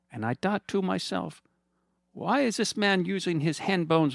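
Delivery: high, sugary mock-friendly villain voice; smug villain Fernando. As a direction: purr at him like a gloating rich villain. Fernando's monologue.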